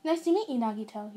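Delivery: pleased motherly welcome; big smile. A narrator's reading. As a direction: greet a guest through a smile. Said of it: "said with a big smile".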